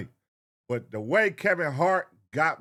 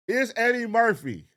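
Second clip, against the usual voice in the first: indignant; 5 semitones higher, 4 dB louder than usual. Real, not acted. Indignant rhetorical question to viewers.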